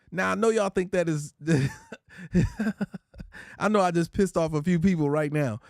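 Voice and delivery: usual speaking voice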